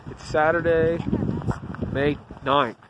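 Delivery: shouting over wind. Real, not acted. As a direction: project loudly over gusts of wind. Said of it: "Hope you can hear me through the wind".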